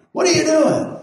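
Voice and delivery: curious hiker. Retold or imitated. Passing hiker asks pastor.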